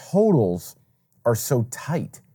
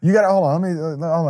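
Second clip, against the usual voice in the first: put-on Miss Cleo Jamaican accent; 7 semitones higher, 4 dB louder than usual. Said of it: "she had this thick Jamaican accent".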